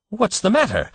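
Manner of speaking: high shocked question; appalled demand. A narrator's reading. Father appalled at the doctor's outburst, high shocked demand. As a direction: demand it in dismay. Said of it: "demanded Mister Button, appalled".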